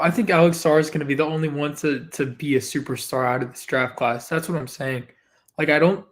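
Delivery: slightly raspy, hoarse throat. Real, not acted. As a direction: talk through a scratchy throat. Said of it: "I have a little bit of a raspy voice".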